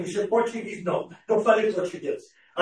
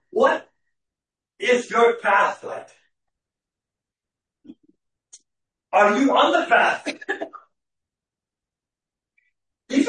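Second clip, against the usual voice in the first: louder, insistent sermon questioning; emphatic preaching; 4 dB louder than usual. Real, not acted. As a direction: press each question on the congregation. Preaches searching questions to congregation.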